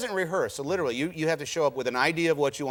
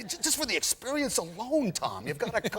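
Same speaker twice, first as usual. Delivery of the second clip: urging enthusiast; 7 semitones higher than usual. Acted. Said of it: "he is always saying to anybody he works with".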